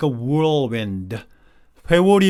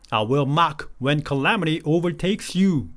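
slow verse reading; much slower than usual. Shown as a demonstration.

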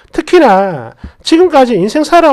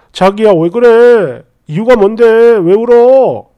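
slow, drawn-out concerned questions; sincerely worried; slower than usual. Acted. Model partner asking crying girlfriend why, lightly acted worry. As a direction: gently coax out what is wrong, lightly acted. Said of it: "진심으로 걱정하고".

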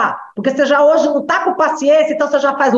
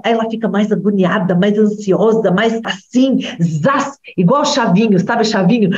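ordinary delivery

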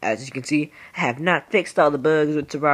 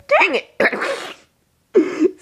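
higher, louder frustrated cry; frustrated outburst; 4 dB louder than usual. Real, not acted. Gamer losing his high voice, blurting in frustration. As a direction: blurt it out in annoyance.

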